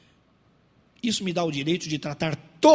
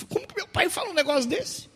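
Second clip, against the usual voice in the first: put-on much higher, incredulous young voice; shocked child; 11 semitones higher than usual. Pastor's children reacting to his bluntness, high and shocked. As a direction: imitate an appalled child in a high voice.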